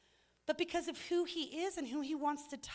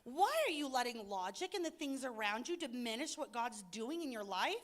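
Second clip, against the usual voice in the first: frustrated plea to Peter; 2 semitones higher than usual. Retold or imitated. Preacher wishing to tell Peter off, frustrated. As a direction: scold Peter like a friend you can't believe. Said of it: "I am so frustrated sometimes".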